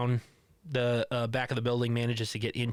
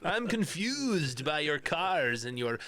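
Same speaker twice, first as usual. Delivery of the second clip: lightly voiced bewildered caveman, slowed down; a hint of a puzzled caveman pleading; caveman lawyer; 4 semitones higher than usual. Podcaster quoting the caveman lawyer sketch, mildly hammed-up. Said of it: "the Unfrozen Caveman Lawyer".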